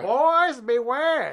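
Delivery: slow, high, loud movie-trailer voice; ominous announcer. Acted. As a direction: boom it out like an old film narrator. Echoing the title, ominous.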